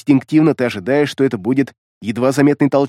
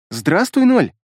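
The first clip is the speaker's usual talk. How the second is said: lightly voiced little girl, sweet greeting; a hint of a small child; child's voice; 5 semitones higher, slower than usual. A narrator's reading. Little girl greets Mark behind his back, lightly childlike. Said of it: "Раздался детский голосок".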